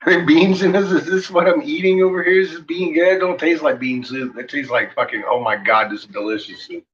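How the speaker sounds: high, amazed food praise; amazed by every bite; savoring delicious food. Pretend. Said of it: "my shit is like".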